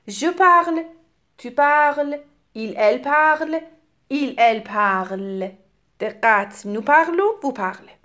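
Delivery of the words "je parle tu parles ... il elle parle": "parle" and "parles" all said "parl"; identical verb sound. Shown as a demonstration. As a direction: pronounce "parles" just like "parle", endings silent. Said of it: "چهار صیغهٔ فعلی شبیه همه".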